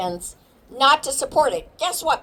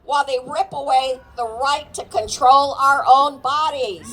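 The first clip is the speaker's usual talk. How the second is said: raised rallying call to the crowd; 4 semitones higher than usual. Real, not acted. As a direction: shout each question at the crowd. Speaker leads crowd call-and-response.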